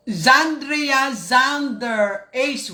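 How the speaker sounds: slow, drawn-out name call; announcing name. Acted. Host greeting a viewer, slow announcer-style name call. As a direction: stretch each syllable like a host.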